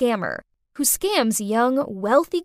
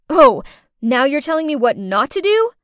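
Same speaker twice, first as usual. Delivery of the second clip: indignant; 2 semitones higher, 8 dB louder than usual. Acted. Narrator indignant retort.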